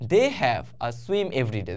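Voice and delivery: slow, careful reading of the example sentence. Shown as a demonstration. Teacher reading the example sentence to students, slow and deliberate. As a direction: read "they have a swim every day" slowly, word by word. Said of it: "দেখো".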